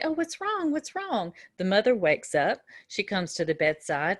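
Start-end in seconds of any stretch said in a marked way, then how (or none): 0.0-1.3 high, startled caring question; alarmed concern. Retold or imitated. Nurse to crying teen, alarmed and concerned. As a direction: ask the crying teen what's wrong, startled.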